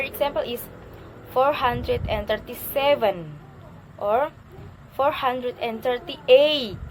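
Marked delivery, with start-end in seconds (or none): 1.3-3.4 "seven" picked out at the end; last-word intonation. Shown as a demonstration. Teacher reading a number example, marking "seven". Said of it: "intonation is rising in the last". 4.9-6.8 slow and loud, "eight" lifted and stretched; last-word intonation. Shown as a demonstration. Teacher demonstrating a long number slowly, stressing "eight". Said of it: "intonation is rising in the last".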